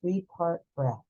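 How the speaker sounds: calm, unhurried breath-work guide voice; soothing meditation teacher, leading the class; guided breathing meditation. Acted. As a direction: guide them gently through each breath.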